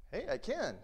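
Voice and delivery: very high, bursting with joy; overjoyed. Acted. Healed beggar jumping up and down, high overjoyed cry. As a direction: cry it out in delight.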